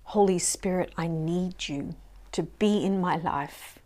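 closing prayer. Acted. Leading the congregation in a closing prayer, earnest and tender. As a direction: pray aloud with sincere devotion.

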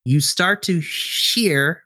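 slow, building suspense; game master setting an ominous scene, slowly; suspenseful narration. Acted. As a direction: draw out the tension slowly.

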